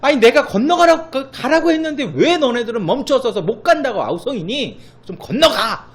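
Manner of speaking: God pushes the people to cross; loud half-laughing rebuke; exasperated God. Retold or imitated. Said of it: "하나님 뭐라고 말씀하시는 겁니까?".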